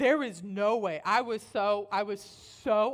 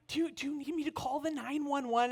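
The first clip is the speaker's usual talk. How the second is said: higher, carefully spoken child imitation; articulate little girl; 5 semitones higher than usual. Oldest girl ready to call for help, articulate child voice. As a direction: enunciate it like an earnest kid. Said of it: "she's very articulate".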